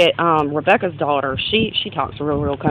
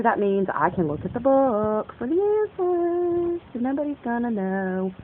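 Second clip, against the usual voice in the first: softer, slower, confiding; softer secret aside; 5 semitones higher, 7 dB quieter than usual. Real, not acted. Telling the viewer between me and you, a softer confiding voice. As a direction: let them in on a secret. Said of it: "between me and you".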